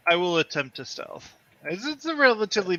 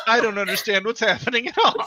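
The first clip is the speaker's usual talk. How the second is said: laughing; 4 semitones higher, faster than usual. Retold or imitated. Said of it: "Janice is like".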